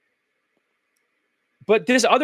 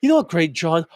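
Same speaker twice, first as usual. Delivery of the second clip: mock deflated talk ending in a sigh; depressed sigh ending. Shown as a demonstration. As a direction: finish the question with a heavy, downcast sigh. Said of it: "That depressed sigh at the end".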